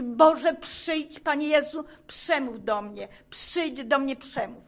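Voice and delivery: a desperate plea, partly shouted; retold crying out. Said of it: "Tylko mogłam krzyczeć". (wołanie do Boga, częściowo krzykiem)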